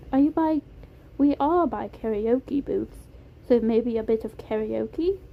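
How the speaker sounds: put-on suggesting in a polite British accent. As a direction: offer an idea in a British accent. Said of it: "It was a soft British accent".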